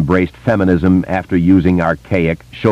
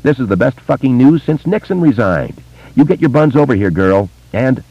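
excited cry; 7 semitones higher than usual. A narrator's reading. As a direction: cry it out in delight. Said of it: "Kay cried".

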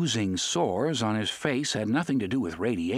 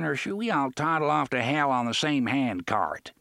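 menacing pirate; 8 semitones higher than usual. A narrator's reading. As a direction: threaten them like a dying buccaneer. Pirate threatens with a grenade.

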